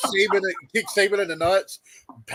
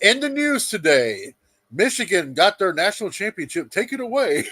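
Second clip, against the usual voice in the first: mock news anchor; 2 semitones higher than usual.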